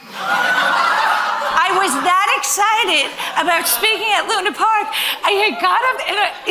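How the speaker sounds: talking through loud, high laughter; real laughter breaking through the words; laughing. Real, not acted. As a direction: laugh helplessly at your own blunder. Laughs recounting facial mask mishap.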